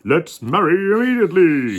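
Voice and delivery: eager shout, a little fast. Acted. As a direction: bellow it, keen to wed. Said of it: "shouted the king".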